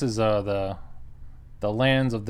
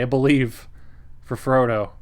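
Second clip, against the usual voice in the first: retold battle cry, only a little louder; mild mock scream; 2 semitones higher, 3 dB louder than usual. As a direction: play at screaming without fully letting go. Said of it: "I start screaming and I say".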